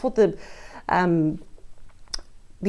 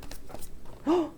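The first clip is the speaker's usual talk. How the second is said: sharp gasp; 8 semitones higher, 10 dB quieter than usual. Real, not acted. Card reveal, sharp intake.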